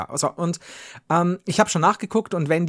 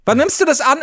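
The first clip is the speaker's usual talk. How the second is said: mother's question; 8 semitones higher, 5 dB louder than usual. Retold or imitated. Mother questions about the package.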